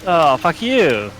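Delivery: slow, drawn-out comeback; slow mock hurt; mock offended. Real, not acted. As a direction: stretch it out as a playful brush-off. Friend denies missing him.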